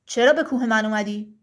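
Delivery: low, heavy giant voice; thick-voiced stone giant. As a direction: speak as a solemn rock giant. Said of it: "غول سنگی با صدای کلفت گفت". (صدای کلفت و بم غول سنگی)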